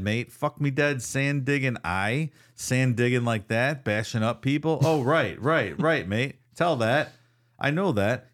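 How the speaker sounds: reading out a drunk Aussie bloke's ramblings in a put-on voice; rough bloke rant. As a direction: growl it like a boozy local mouthing off to nobody. Reads Owen's bugged rants aloud.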